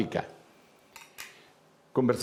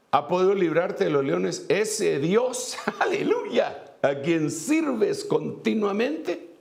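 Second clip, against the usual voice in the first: excited shout; 8 semitones higher, slower than usual. Acted. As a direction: shout it out, then laugh into the praise. Reading the king's cry aloud.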